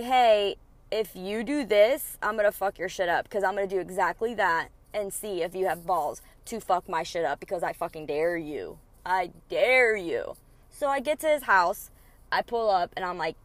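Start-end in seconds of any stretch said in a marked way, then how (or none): 0.0-10.4 defiant dare. Retold or imitated. Angie daring her ex to act on his threat, defiant. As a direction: throw the dare right back. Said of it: "you don't tell me".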